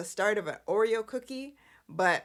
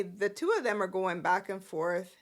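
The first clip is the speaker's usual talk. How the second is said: ordinary delivery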